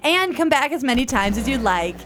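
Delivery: light touch of a polished tour guide. Acted. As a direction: announce it like a theme park tram guide. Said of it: "which is tour guide voice".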